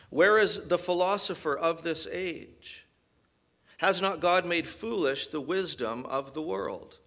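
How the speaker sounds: sarcastic. Retold or imitated. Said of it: "the sarcasm in Paul's voice here".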